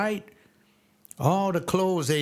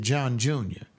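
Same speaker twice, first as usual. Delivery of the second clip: mother's warning; 3 semitones lower than usual. Retold or imitated. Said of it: "when she lowered her voice".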